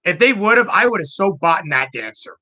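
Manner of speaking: eager, wishing it existed; excited. Retold or imitated. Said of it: "She goes".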